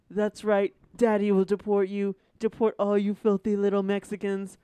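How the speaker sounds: gruff Trump voice. Acted. Trump character shouting slurs.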